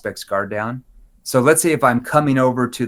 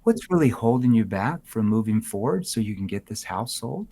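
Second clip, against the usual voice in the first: concerned tone; 2 semitones lower, 4 dB quieter than usual. Shown as a demonstration. Agent asking a stalled seller gently, with concern. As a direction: ask gently, showing empathy. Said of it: "I just said the same words".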